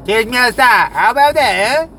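loud taunting dare; taunting challenge. Acted. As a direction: goad him to fight.

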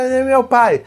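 put-on high-pitched small boy's cry from upstairs, not truly shouted; imitated child calling out. Angry son calls down from upstairs, mock child's cry. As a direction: mimic an upset child calling from afar. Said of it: "ele gritou lá de cima".

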